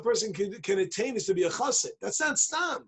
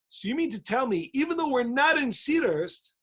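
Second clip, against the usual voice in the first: triumphant challenge; 6 semitones higher than usual. Acted. Chassid triumphantly turns argument back.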